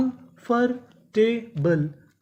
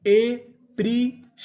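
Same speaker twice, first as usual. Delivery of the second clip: एप्रिशिएशन stretched slowly, higher and louder with a rise; slow drawn-out model word; 4 semitones higher, 4 dB louder, much slower than usual. Shown as a demonstration. Teacher sounds out एप्रिशिएशन slowly for the class. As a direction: pull each syllable of एप्रिशिएशन out slowly. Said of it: "तो पूरी meaning क्या बनी?".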